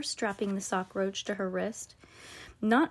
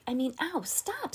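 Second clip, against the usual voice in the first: pained cry; 6 semitones higher than usual. Acted. Amber in pain.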